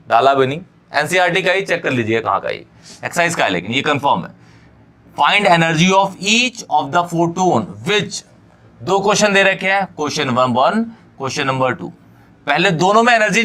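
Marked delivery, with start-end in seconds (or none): 5.2-8.2 reading out the question word by word, slowly; slow dictation pace for the class. Shown as a demonstration. Teacher reading the question to students, slow dictation.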